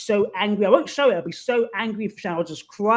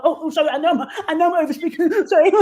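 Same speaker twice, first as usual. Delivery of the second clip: higher, sheepish apology through a laugh; 9 semitones higher, 6 dB louder than usual. Retold or imitated. Interrupter caught talking over someone apologises, laughing sheepishly. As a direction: giggle out an embarrassed sorry. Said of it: "the person might go".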